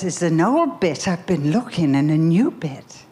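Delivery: imitated Liverpool pupil explaining; Liverpool accent. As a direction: play the Liverpool street kid working it out. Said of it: "and I'll use the accent".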